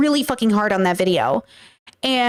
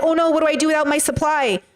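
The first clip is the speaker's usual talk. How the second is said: high, whiny mock panic; mock panicked women; 5 semitones higher than usual. Women panicking without their supply, high mock wail. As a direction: wail like a lost fan. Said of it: "the women are like".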